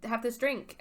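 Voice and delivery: coaxing, put-on hostess voice; Cece. Spa owner luring Percy to drink, coaxing. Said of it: "She's like, "Hee hee".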